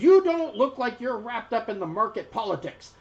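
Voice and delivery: high-voiced merchant making an offer; gnome noodle seller. A narrator's reading. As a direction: win the strangers over in a high voice. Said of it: "she says".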